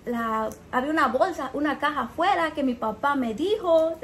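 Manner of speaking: a hint of a Cuban accent, retelling her. Retelling the customer's phone explanation, light Cuban accent. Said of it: "a Cuban accent".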